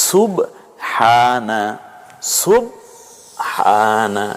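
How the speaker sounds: সুবহানা very slowly, the final আ held long; drawn-out recitation. Shown as a demonstration. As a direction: stretch সুবহানা out like Quran reading. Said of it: "একটু টেনে বলতে হবে". (সুবহানা ধীরে, শেষের আ দীর্ঘ টেনে)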